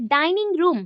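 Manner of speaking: "डाइनिंग रूम" with both words stressed; compound-word stress. Shown as a demonstration. Teacher showing compound stress, weighting both words of "डाइनिंग रूम". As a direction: lean on डाइनिंग and also on रूम in "डाइनिंग रूम". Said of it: "पूरे words को हम ज़्यादा focus करें".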